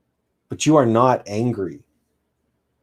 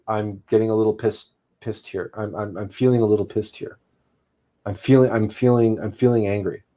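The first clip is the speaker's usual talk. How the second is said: calm honest. Shown as a demonstration. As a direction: gently own up to the anger.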